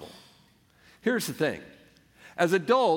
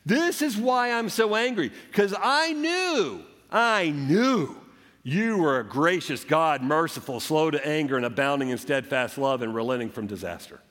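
1 mock angry Jonah. Preacher voicing angry Jonah's prayer.

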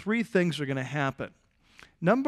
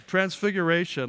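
bold, confident call-out; 2 semitones higher than usual. Retold or imitated. Front-row man answering the preacher's question, bold. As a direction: say it boldly, full voice. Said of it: "he's like, Bold".

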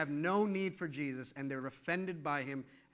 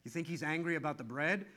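hushed, softer worried disciples; mock whisper; 5 semitones lower, 6 dB quieter than usual. Disciples murmuring in the boat, mock hushed. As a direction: murmur it like nervous kids. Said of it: "the disciples start whispering".

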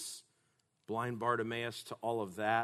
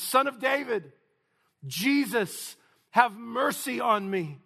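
loud, high cry for mercy; raised, urgent call; 12 semitones higher, 9 dB louder than usual. Acted. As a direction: shout the plea to someone passing. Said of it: "This man is crying out".

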